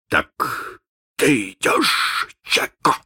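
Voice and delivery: slow, breathy musing question; thoughtful. Acted. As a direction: ask it slowly, lost in thought. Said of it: "спросил он задумчиво".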